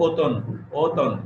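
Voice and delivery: অতন starting on a closed "o"; correct pronunciation. Shown as a demonstration. Teacher modelling অতন for students with an ও sound. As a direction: round the first vowel of অতন into ও, said separately. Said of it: "ও এর মতো উচ্চারণ হয়".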